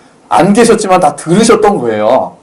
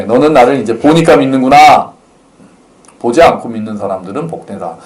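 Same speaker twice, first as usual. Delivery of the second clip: gentle; 5 semitones lower than usual. Shown as a demonstration. Jesus gently telling Thomas he is blessed for believing. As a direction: say it gently like a patient teacher. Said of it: "부드럽게".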